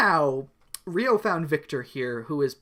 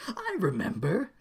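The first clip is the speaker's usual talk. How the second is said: teary voice; 4 semitones higher than usual. Acted. Soap opera recollection.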